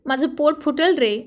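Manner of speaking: drowsy protest, slow at the start; sleep-talking, pleading not to be fed; half-asleep mumbling. Acted. Wife talking in her sleep to husband, drowsy mumbling plea. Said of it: "अर्धवट झोपेतच बरळून म्हणाली".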